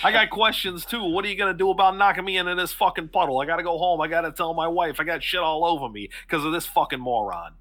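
laughing muddy townsman ranting; angry thug. Acted. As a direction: rant about the mud and the wife. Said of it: "looks at the other one and goes".

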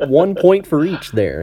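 laughing. Real, not acted. Joking verdict, laughing.

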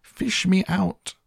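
very high, slow squeal; high mock yell. A narrator's reading. Boy in chocolate river begging rescue, high mock yell. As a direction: draw out a squealed plea. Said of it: "he yelled".

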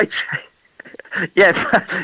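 laughing through the words, voice jumping high; amused, half-laughing reply. Real, not acted. Preacher laughing off being called a tradesman, answering through laughter.

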